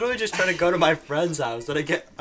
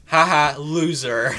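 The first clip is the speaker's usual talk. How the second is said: flat robotic monotone taunt; 4 dB louder, slower than usual. Retold or imitated. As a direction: say it like a robot, no feeling. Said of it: "In that exact monotone voice".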